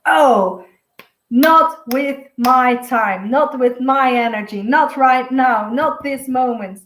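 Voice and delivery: slow, measured boundary-setting; firmly refuse, spacing out each phrase; mildly firm, deliberate refusal. Acted. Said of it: "really firm about this".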